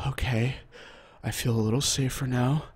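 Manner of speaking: imitated eerie calm, no excitement; understated, unhurried killer's voice. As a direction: speak evenly, as the shooter settling down. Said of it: "very calmly, he goes".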